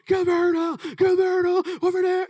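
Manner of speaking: high, loud shout across the field; coach yelling. Retold or imitated. Football coach shouting at his player mid-game. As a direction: bark a name from the sideline. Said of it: "the coach was like".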